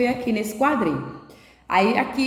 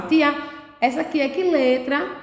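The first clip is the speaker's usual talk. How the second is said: put-on 1 child asking teacher; 5 semitones higher than usual. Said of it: "faça igual faz aqui na sala".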